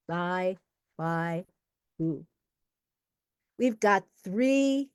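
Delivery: measured, emphatic build to the name; emcee's poet introduction. Real, not acted. Host introducing the first of three poets, ceremonious announcer voice.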